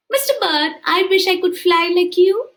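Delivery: high, wishful tortoise; longing to fly, voiced up high. Tortoise telling the bird his wish, high and longing.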